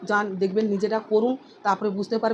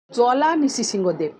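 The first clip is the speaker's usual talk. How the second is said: slow name recital; 4 dB louder than usual. Shown as a demonstration. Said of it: "তার জন্য ভগবানের নাম হচ্ছে".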